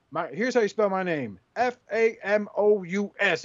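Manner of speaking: retelling Flair's boast. Retold or imitated. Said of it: "he goes".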